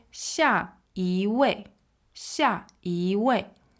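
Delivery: 一 rising like a second tone, slowly. Shown as a demonstration. Teacher models 下一位 for learners, 一 rising. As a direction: say 下一位 slowly, 一 gliding upward. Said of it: "it turns into a rising tone".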